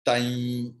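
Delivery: "Tai" sustained with a nasal y-glide; anushwara before ya. Shown as a demonstration. Teacher showing anushwara before ya, chanted Tai. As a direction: hold "Tai" on a level tone, gliding into nasal y. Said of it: "Anushwara's pronunciation will be like yang".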